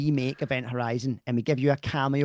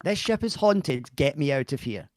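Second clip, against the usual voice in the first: American accent line. Shown as a demonstration. Husband repeating the film line for his wife, slow mock American. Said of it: "your line is".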